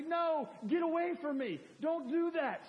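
high, loud brush-off; acted angry refusal. Preacher acting a stubborn lifter turning spotters away. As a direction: push the helpers away angrily. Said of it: "I say".

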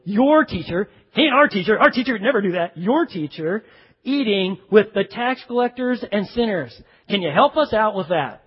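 sarcastic Pharisees. Retold or imitated. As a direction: sneer lightly at "your teacher". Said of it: "they probably say that rather sarcastically".

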